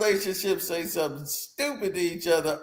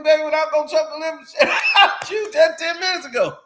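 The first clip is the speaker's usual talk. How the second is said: higher, louder, fast laughing mock threat; 10 semitones higher, 4 dB louder, faster than usual. Couple joking about choking, fast laughing mock shout. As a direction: shout it playfully at your partner, laughing.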